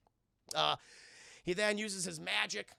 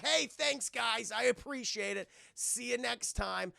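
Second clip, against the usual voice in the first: high, chirpy farewell; acted breezy goodbye; cheery trickster; 5 semitones higher than usual. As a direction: sign off in a high, playful lilt. Freed Puck's cheery farewell.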